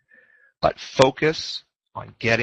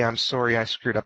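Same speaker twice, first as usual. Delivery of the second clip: calm apology. Shown as a demonstration. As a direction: own the mistake evenly. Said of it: "calm voice".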